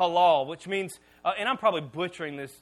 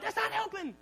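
high, laughing complaint; laughing while straining; strained laughing protest; 11 semitones higher, 6 dB quieter than usual. Retold or imitated. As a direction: squeak it out through a laugh.

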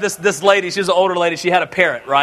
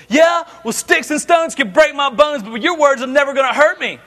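put-on kids' taunt; 5 semitones higher than usual. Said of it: "the phrase that always got said was".

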